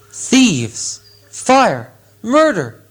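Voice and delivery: a dragon shrieking over stolen gold; furious dragon roar. Acted. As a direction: roar each word out in fury. Smaug discovers the theft.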